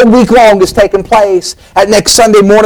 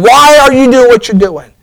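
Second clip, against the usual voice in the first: raised, higher pleading question to John; climactic question; 4 semitones higher than usual. Acted. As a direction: press the question to its peak. Preacher's climactic rhetorical question.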